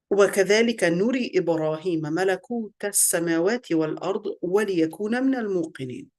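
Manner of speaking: measured Arabic scripture recitation; reverent-style recital in Arabic; Quran recitation. Acted.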